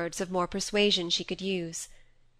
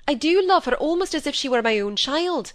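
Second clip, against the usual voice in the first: earnest declaration; 7 semitones higher, 5 dB louder than usual. A narrator's reading. Father's original declaration.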